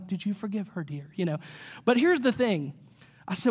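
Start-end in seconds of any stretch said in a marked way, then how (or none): 0.1-1.1 pastor voice. Retold or imitated. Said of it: "put the pastor hat on".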